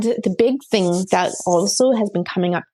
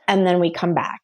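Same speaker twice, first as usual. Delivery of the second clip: breathy whisper at the end; 4 semitones lower than usual. Retold or imitated. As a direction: let the pet's promise fade to a whisper. Pet's message retold softly.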